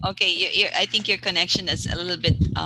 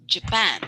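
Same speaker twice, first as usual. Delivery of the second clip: "Japan" as ja-PAN; "Japan" stressed at the end; stress on second syllable of Japan. Shown as a demonstration. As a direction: model "Japan" with a weak JA and strong PAN. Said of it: "this is to be, uh, to be pronounced".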